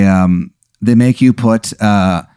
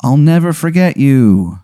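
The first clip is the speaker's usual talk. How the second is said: slow, slightly raised, mildly choked-up goodbye; tearful farewell; 4 semitones higher than usual. Acted. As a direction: lightly play a kid moved to happy tears. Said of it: "kinda, like, fill with happy tears".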